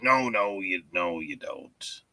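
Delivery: ordinary delivery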